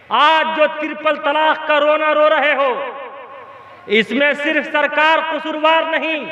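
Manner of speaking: ringing exhortation in measured phrases; preaching. Real, not acted.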